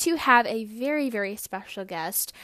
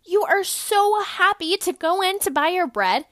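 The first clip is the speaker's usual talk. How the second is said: higher, louder, bouncy and over-happy; giddy exaggerated cheer; 8 semitones higher, 6 dB louder than usual. Podcaster hamming up the happy shopper, giddy. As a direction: sell the joy of shopping. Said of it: "I know I'm being funny".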